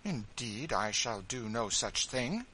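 a touch of sharp refusal, slow and cold. Acted. Marie refuses Tom's freedom to Miss Ophelia, mildly sharp. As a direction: shut the request down firmly. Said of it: "said Marie sharply".

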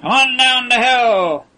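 high, loud taunting shout from a pit; mock the visitor with a rowdy yell; jeering yell. A narrator's reading. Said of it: "a wild clamor from below".

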